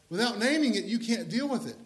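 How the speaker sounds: rising preacher's emphasis. Shown as a demonstration. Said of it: "preacher repeats for emphasis".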